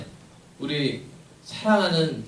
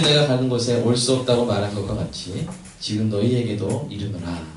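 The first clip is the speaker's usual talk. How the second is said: measured, declamatory Bible reading; scripture reading. Acted. Pastor leading the congregation in responsive reading, scripture reading. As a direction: read the verse out firmly and deliberately.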